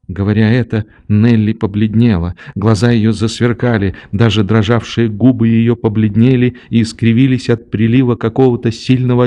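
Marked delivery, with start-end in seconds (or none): none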